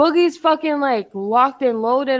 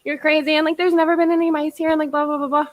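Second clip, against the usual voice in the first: mocking landlord; 4 semitones higher, faster than usual. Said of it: "They said".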